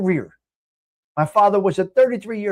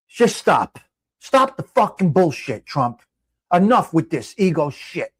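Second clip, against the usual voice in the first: angry; 2 semitones lower, slower than usual. Real, not acted. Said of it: "I'm sorry. I got off the chat".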